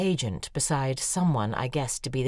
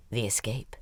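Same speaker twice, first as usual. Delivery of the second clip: hushed, dramatic whisper; 5 semitones lower, 5 dB quieter than usual. A narrator's reading. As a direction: breathe the words as a secret. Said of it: "unvoiced whisper".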